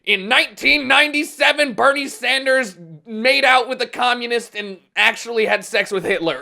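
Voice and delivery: a lightly voiced smear-ad announcer; attack ad voice. Mock attack ad again.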